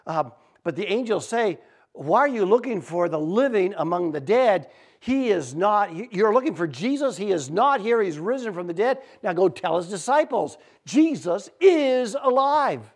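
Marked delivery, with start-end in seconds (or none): 1.9-12.9 triumphant announcement. Retold or imitated. Angels telling the women at the tomb, triumphant. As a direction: proclaim it, building to a big finish.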